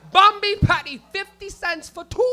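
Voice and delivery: high, loud hawker's call; mock yelling. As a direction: holler the deal out to the street. Yelling out a patty deal.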